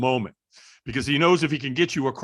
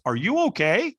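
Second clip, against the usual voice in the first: imitating a concerned stranger, pitched up; 6 semitones higher than usual. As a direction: lean in with a gently raised, concerned question. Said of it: "very concerned, you know, uh, tonality".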